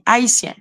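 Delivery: « haïtien » dit à la française, h muet; prononciation française. Shown as a demonstration. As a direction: say "haïtien" the French way, a-i-sien. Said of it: "en français, on dit". (« haïtien » à la française, sans h)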